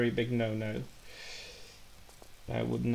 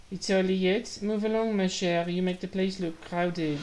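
put-on higher, louder French-accented character voice; Janice with French accent; 6 semitones higher, 4 dB louder than usual. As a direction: put on a high French accent and shoo them along. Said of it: "I can channel my inner Janice".

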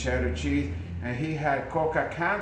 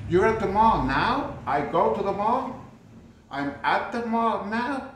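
confused rising questions, louder; puzzled questioning; 4 semitones higher, 3 dB louder than usual. Shown as a demonstration. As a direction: act baffled by the wrong tense. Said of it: "puzzled questions at the mistake".

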